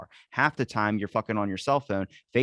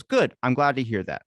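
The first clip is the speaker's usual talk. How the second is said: mock interruption; 2 semitones higher, 4 dB louder than usual. One robot cuts the other off mid-sentence, mock interrupting. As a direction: jump in over the other, imitating a robot. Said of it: "cuts him off and goes".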